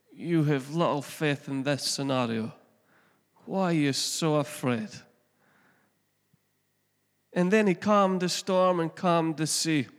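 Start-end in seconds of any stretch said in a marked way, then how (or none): 0.1-4.9 gently, like a patient father; calm fatherly. Shown as a demonstration. Jesus gently reassuring frightened disciples, calm and fatherly. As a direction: reassure rather than rebuke. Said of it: "It's a mere calm, fatherly heart".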